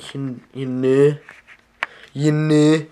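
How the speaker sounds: drawn-out signature "you knew"; trademark sound. Shown as a demonstration. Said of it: "That's my trademark sound".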